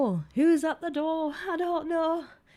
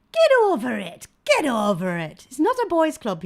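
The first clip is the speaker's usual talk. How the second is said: loud retort, louder than her talk; 2 semitones higher, 9 dB louder than usual. Retold or imitated. Host retells her reply to a critic, loud retort. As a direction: tell them off firmly. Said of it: "I was like".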